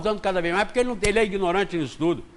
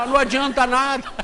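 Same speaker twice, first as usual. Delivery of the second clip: laughing doctor; 8 semitones higher than usual. Retold or imitated. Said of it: "Ele fala".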